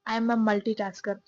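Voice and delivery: drawn out slowly, word by word; a slow, mock-proud boast; slow and deliberate. Real, not acted. Speaking to viewers, slowly insisting she's a multitasker. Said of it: "ऐसा joke मत लेना कि मैं झाड़ रही हूँ".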